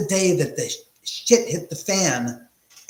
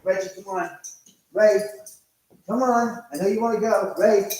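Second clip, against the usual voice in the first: coaxing a dog; 6 semitones higher, 4 dB louder than usual. Real, not acted. Urging the dog outside.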